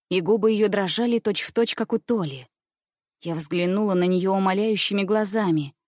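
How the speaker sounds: ordinary delivery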